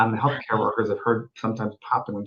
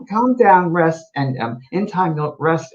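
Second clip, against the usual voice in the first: put-on Scottish accent; 3 semitones higher, slower than usual. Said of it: "And it was a Scottish woman".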